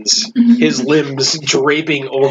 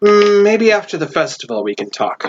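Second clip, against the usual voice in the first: dwarvish barkeep; faster than usual. Acted. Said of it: "and she goes".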